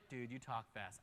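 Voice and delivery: low, soft aside; imitated listener's complaint. Listener to fast-talking preacher, low imitated complaint. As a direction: mutter it like someone in the pews.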